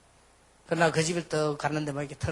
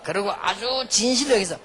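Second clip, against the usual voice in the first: rallying call; 8 semitones higher, 5 dB louder than usual. Acted. Rallying congregation with slogan.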